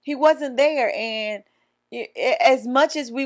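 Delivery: sad. Real, not acted. Grieving dead father.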